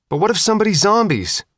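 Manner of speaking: anxious. Acted. Faith anxiously clutching the shotgun.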